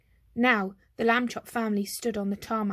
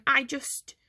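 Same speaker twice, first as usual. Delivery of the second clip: loud careful voice; 4 semitones higher than usual. Acted. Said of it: "in a very loud, careful voice".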